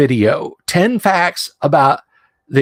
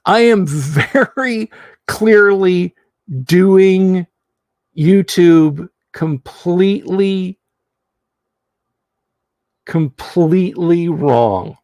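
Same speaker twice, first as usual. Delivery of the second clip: high, slow theatrical despair; overdramatic lament; 3 semitones higher, slower than usual. Acted. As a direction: wail it like a tragic hero. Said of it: "repeats line more dramatically".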